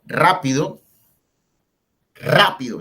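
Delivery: RÁ-pido, strong first syllable; stress on antepenultimate syllable. Shown as a demonstration. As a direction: punch the very start of rápido. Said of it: "lleva la fuerza ahí enseguida".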